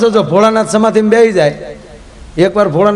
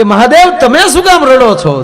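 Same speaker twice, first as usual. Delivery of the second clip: concerned calling out; 6 semitones higher, 5 dB louder than usual. Pretend. Someone calls out to the crying Shiva.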